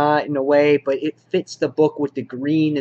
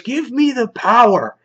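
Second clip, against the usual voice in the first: much higher, louder mock-villain gloat; 10 semitones higher, 4 dB louder than usual. Reviewer voices the Cedar crowing over his victory, hammed-up gloat. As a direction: crow over the win like a cartoon villain. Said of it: "And he goes".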